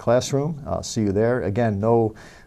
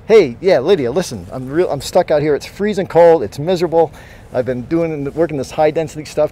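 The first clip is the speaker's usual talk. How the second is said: loud phone call; 3 semitones higher, 6 dB louder than usual. Acted. Calls TA on phone outdoors.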